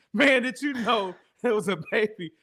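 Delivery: ordinary talk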